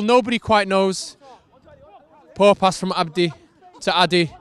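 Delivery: casual play-by-play commentary, running over the action; mock match commentary. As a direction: call the game like a TV commentator.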